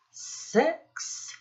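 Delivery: a breathy whisper on the number six. Acted. Teacher to children counting fingers, whispering the six. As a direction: whisper it like a little secret.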